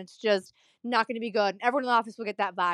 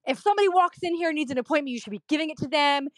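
fast, higher imitation of an irate patient; mild mock yelling; 5 semitones higher, faster than usual. Patient demands walk-ins get appointments, mild mock yelling. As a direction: rattle off a retold indignant demand. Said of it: "he starts yelling".

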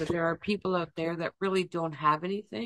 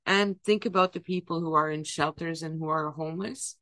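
crying; 6 dB louder than usual. Acted. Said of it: "Why are you crying?".

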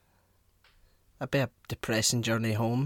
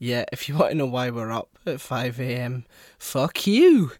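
playful rude outburst; 5 dB louder than usual. Acted. Mock hostile outburst.

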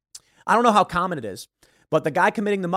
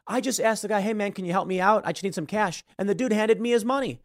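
lightly acted innocent plea, pitched up; feigned innocence; 4 semitones higher than usual. Mugger on the stand explaining himself, mock innocent. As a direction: play it harmless and casual.

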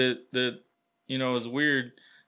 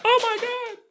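exasperated; 5 dB louder than usual. Real, not acted. Phone trouble outburst.

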